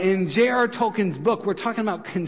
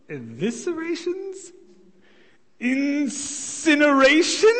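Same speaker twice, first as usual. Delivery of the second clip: hobbit reading contract. Acted. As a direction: read the terms with growing alarm, word by word. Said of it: "small hobbit is examining the contract".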